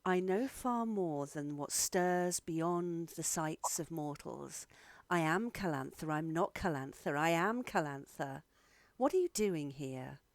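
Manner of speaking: measured, slightly eerie otherworldly woman; a hint of eerie grandeur, unhurried; lightly voiced unnerving Calantha. Game master voices Calantha.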